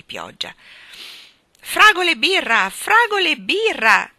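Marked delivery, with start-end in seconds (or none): 1.6-4.1 loud, high crowd cry; thirsty shouting. A narrator's reading. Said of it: "gridavano assetati".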